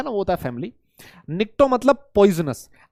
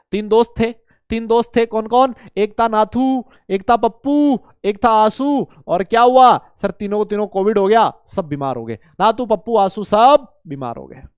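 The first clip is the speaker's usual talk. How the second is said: storytelling mnemonic; 3 dB louder than usual. Shown as a demonstration.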